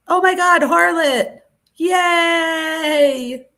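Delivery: high, loud squeal of joy; excited shriek. Real, not acted. Streamer thrilled as her viewer Harlot finally gets a membership, shrieking.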